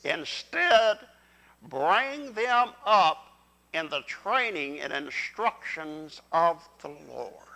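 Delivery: slow, deliberate group reading of a verse; leading scripture read-along. Real, not acted. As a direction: lead the congregation through it word by word. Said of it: "read along with me".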